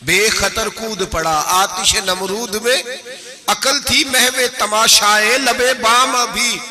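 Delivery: slow, measured Urdu verse recital; Iqbal کا شعر آہستہ ترنم سے; poetic recitation. Shown as a demonstration. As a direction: draw each line of the verse out slowly. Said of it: "Iqbal verse recited".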